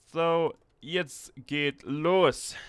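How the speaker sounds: slow, loud, stretched German exclamation; rally the troops in German; dramatic German battle cry. Pretend.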